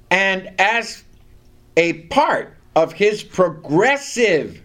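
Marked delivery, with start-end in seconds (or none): 3.2-4.6 progressive said slowly and deliberately; stress on progressive. Real, not acted. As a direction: draw out progressive for emphasis. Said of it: "and I stress that word".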